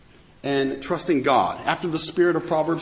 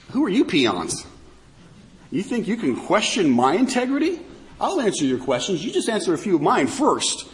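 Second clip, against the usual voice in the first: taunting challenge, voicing God's retort; biting sarcasm; 3 semitones higher than usual. God rebukes Job and friends who question him, biting sarcasm. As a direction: put the questioners in their place with pointed sarcasm. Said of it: "ripping into them with this biting sarcasm".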